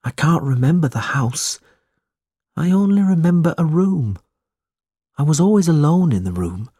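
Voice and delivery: high, uneasy recollection; fearful, troubled. A narrator's reading. Smike remembering the attic door, fearful. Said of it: "his voice shook as he spoke".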